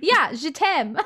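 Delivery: put-on teasing echo of Cork-accented French; French mimicked with a Cork lilt; mock accent attempt. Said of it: "That beautiful Cork accent coming through".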